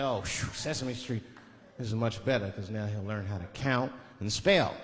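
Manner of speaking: low, slow, settled relief; relieved. Acted. Uncle relieved after changing channel, low slow relief. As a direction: breathe out and ease down slowly.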